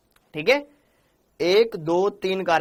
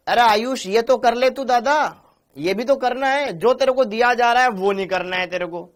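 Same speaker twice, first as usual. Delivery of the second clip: raised, higher-pitched teacherly telling-off; exasperated scolding; 4 semitones higher, 4 dB louder than usual. Real, not acted. Teacher to a student ignoring the given work, exasperated scolding.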